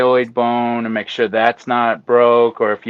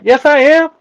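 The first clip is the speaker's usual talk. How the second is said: mock indignant protest; 10 semitones higher than usual. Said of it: "I'm like".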